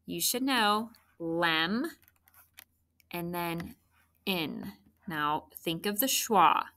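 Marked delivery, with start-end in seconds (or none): 1.2-1.9 "lem" drawn out on its own; first syllable isolated. Shown as a demonstration. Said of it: "lem, L E M". 4.3-4.7 "in" said alone, softly; second syllable isolated. Shown as a demonstration. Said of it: "here in my second syllable".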